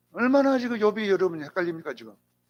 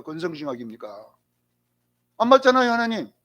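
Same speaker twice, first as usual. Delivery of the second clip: 따지는 말투. Retold or imitated. Job challenges God over unjust retribution, argumentative. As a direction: protest to God like a wronged man. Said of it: "따지는 거예요 욥이".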